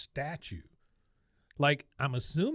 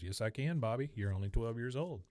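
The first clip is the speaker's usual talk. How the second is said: softly delivered imitation of a dad's reply; mock fatherly comeback; 5 dB quieter than usual. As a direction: answer the kid's protest evenly, as Dad. Acting the dad's calm comeback.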